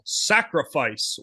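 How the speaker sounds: SACRIFICE punched as an exclamation; a touch of mock yelling on Sacrifice; exclamatory title. Shown as a demonstration. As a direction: say Sacrifice with a mild exclamation point. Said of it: "That's why you have to say it that way".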